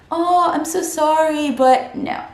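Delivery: high, mock-apologetic refusal; acted polite refusal. Student turning down a friend's invite, high apologetic voice. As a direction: apologize in a lifted voice, then decline. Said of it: "say no".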